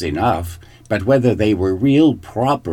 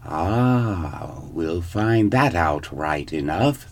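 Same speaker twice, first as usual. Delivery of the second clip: put-on old queen muttering to herself; 3 semitones lower, 4 dB quieter, slower than usual. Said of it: "thought the old queen to herself".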